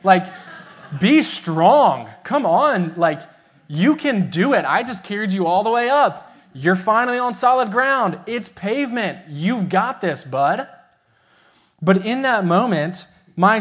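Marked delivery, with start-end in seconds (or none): 0.0-10.7 louder, higher mock coaching of a toddler; half-joking push to toughen up; a hint of a drill coach egging on his son; tough-love pep talk. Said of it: "my flesh wanted to be like".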